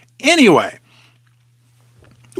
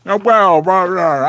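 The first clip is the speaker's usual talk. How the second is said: a quick half-hearted go at the bank boss; Jamie Dimon impression; much slower than usual. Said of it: "I need to do a better impression".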